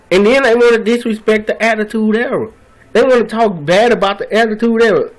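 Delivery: getting upset. Real, not acted. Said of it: "I'm getting upset here".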